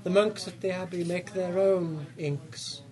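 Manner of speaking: slow, firm merchant bargaining; haggling shopkeeper. Acted. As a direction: hold firm on the price, slowly.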